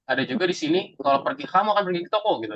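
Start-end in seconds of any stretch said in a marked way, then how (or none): 1.5-2.5 higher command, "toko" falling firmly; command tune. Shown as a demonstration. Teacher demos an order to the class, commanding fall. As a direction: order it, drop hard on "toko". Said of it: "Ini lebih ke perintah ya".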